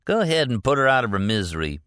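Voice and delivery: quick, pushy urging. A narrator's reading. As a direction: hurry him along. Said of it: "Leroy urged".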